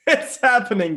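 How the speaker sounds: high, loud burst of mock excitement; excited. Student yawning in calculus class, excited outburst. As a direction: call it out as the big moment arrives. Acted climax in story.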